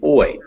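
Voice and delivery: "oi" as two vowels smushed together; diphthong demonstration. Shown as a demonstration. Teacher showing what two vowels make together, clear "oi". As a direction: glide clearly through "oi". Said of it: "Together they make".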